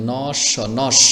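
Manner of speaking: "নস" said as "nosh", closing on a clear sh; teacher demonstrates "নস" ending in sh; first of doubled sh. Shown as a demonstration. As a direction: spell it out in pieces, then join as "নস" with an sh ending. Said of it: "প্রথমবার এরকম ন ধরবে শকে".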